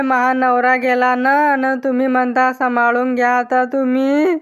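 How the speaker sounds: acted lament ending in crying; hammed-up widow's wail; mock wailing. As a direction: grieve theatrically, crying at the end. Widow told her husband is dead.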